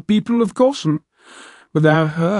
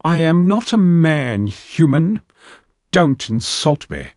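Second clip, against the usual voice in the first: much higher, louder, slow offended cat alien; indignant snap; 9 semitones higher, 4 dB louder, slower than usual. Acted. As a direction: bite off each word in outrage. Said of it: "leaned forward and snapped".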